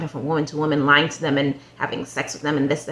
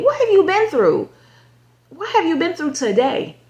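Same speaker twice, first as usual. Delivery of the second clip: exasperated rant; 6 semitones higher than usual. Real, not acted. Venting at the show's player, exasperated and high. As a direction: demand to know what he went through. Ranting about the man on show.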